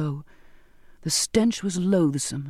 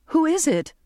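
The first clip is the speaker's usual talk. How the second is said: high, loud panicked cry; frightened cry; 10 semitones higher, 3 dB louder than usual. A narrator's reading. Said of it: "I cried".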